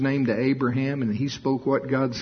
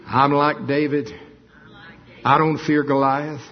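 bold; 3 semitones higher, 3 dB louder than usual. Acted. Preacher boldly declaring no fear of Goliath, louder. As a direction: declare it like David facing Goliath.

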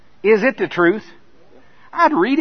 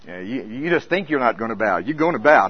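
taunting body voice; 4 semitones lower than usual. Retold or imitated. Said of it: "My body starts talking".

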